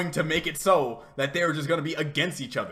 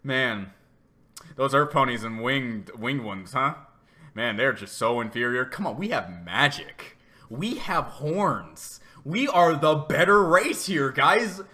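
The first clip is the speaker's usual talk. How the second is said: lower, smug snob voice mocking the earth ponies; a lightly lowered, hammed-up elitist gloat; mock smug unicorn; 5 semitones lower, 3 dB louder than usual. Chrysalis posing as a pony, boasting to the crowd, smug mock voice. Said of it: "She's like".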